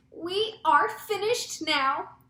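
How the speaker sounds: high, slow, loud cry of doom; drawn-out panicked wail; yelled alarm. A narrator's reading. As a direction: cry out that all is lost. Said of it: "yelled the head of the fire department".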